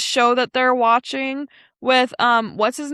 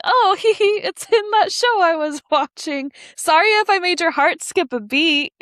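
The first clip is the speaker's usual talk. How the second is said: giggly teasing; 6 semitones higher, 3 dB louder than usual. Retold or imitated. Character teases him, giggling.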